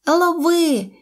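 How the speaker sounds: high-pitched quick call. A narrator's reading. Monkey throws baby mammoth a banana, high call. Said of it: "крикнула вона мамонтеняті".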